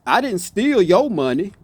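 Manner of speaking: your lifted, rising tune; stress on your. Shown as a demonstration. Showing viewers whose money, stress on your. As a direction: raise your, as if it was someone else's money. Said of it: "check this one out".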